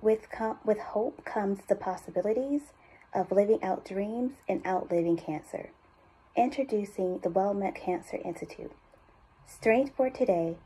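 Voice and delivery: measured voiceover with pauses between phrases; unhurried, hopeful cancer institute spot; heartfelt ad read. Acted. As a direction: read it as a sincere hospital commercial. Reads cancer institute ad copy.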